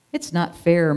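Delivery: sulky mild moan; jealous sheep moaning to the flock. Acted. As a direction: whine it a little. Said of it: "moaned Curly".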